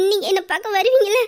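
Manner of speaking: crying, begging him to answer; tearful pleading. Acted. Wife begging her husband to promise he'll come, crying. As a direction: plead through sobs.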